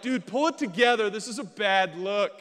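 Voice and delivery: loud, high self pep talk; urgent self-scolding. Retold or imitated. Man ordering himself not to cry at movie, urgent. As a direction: scold yourself to pull it together.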